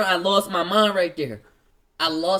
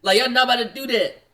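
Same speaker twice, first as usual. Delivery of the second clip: fast frantic protest; 2 semitones higher, faster than usual. Retold or imitated. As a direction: rattle it off in a panic. Pleading protest to police.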